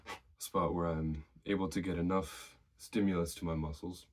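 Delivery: slightly winded, catching breath; talking while still breathless. Real, not acted. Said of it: "Sorry, I'm still a little bit out of breath".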